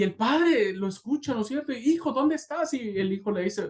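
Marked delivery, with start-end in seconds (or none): 1.7-2.7 very high, urgent father's call; desperate calling out. Acted. Father answers the little voice, desperate calling. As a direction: call out searching for your child. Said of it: "le grita con todas sus fuerzas".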